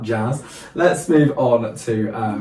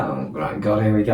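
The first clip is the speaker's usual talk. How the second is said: weary dread; 2 semitones lower than usual. Retold or imitated. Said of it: "I just thought it's gonna be another one of them".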